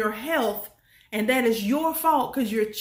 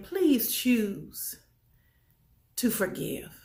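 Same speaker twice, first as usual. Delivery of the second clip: pleading softly; slower than usual. Shown as a demonstration. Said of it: "I'm gonna say it again".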